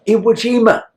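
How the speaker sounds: high, amazed exclamation; imitating an amazed mother; astonished quote. Voicing the amazed Japanese mother.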